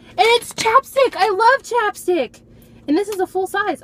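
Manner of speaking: high, loud delight; gushing excitement; excited squeal. Real, not acted. Delighted about chapstick.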